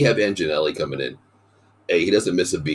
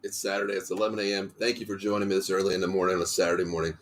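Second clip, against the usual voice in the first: hoarse after surgery; speaking with a hoarse, strained voice; 2 semitones higher, 4 dB quieter, faster than usual. Real, not acted. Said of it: "I still have a little hoarse voice".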